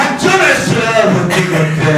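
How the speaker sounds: fast mock holler; top of the voice. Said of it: "at the top of the voice".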